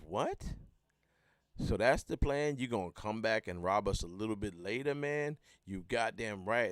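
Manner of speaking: voiced bartender. In the rap story, bartender questioning the robber in disbelief. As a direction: play the stunned bartender.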